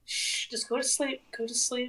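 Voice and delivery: whispering over a crib. Pretend. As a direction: lull it gently to sleep. Hushing a game dog to sleep.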